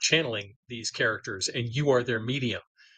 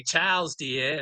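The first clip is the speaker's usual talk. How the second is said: CHARLES and DEAR with the R's dropped, Maine style; a rough stab at a Maine accent; attempted Maine accent; 3 semitones higher, much slower than usual. Shown as a demonstration. Author showing how Robbie Bliss talked, attempted Maine accent. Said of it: "I would attempt to drop the I's".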